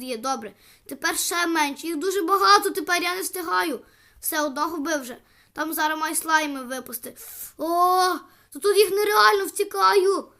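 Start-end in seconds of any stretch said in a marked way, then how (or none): 1.9-3.8 higher, louder, fast and frantic. Real, not acted. Player swarmed by slimes, speaking fast and frantic. 7.6-10.3 higher and louder alarmed cry; panicked flight. Real, not acted. Player fleeing a pack of slimes, panicked and loud.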